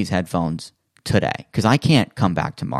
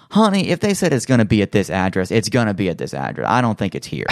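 put-on older Southern woman. Clerk at the counter turning him away, light Southern lady voice. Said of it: "older black woman from the South".

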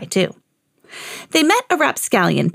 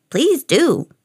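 mildly growled, raised-pitch taunt; growling ghoul; 5 semitones higher than usual. A narrator's reading. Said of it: "growled the ghoul".

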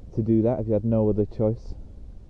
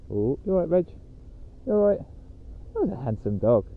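talking to the dog; 7 semitones higher than usual. Real, not acted. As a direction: coo up high at the pup. Talking to his dog Reggie.

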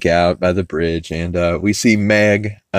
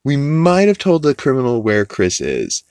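sheepish confession; 5 semitones higher than usual. Retold or imitated. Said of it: "And he's like".

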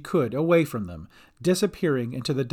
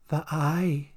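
understated creature menace; menacing villain. A narrator's reading. Dolly squints at Cat, lightly menacing villain. Villain names her demand.

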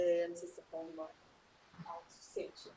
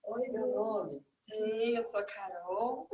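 giggly self-introduction; 21 dB louder, much slower than usual. Retold or imitated. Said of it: "fala assim".

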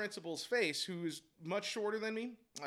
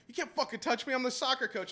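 higher, louder mock outrage; retold indignant protest; 6 semitones higher, 5 dB louder than usual. Soccer coach protesting at being grabbed, mock indignant. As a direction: imitate an outraged dad pushing back. Acted quote in retold confrontation.

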